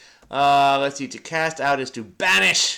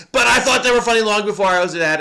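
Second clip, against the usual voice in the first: laughing; 6 semitones higher, 8 dB louder, faster than usual. Real, not acted. Laughing defence of dad jokes.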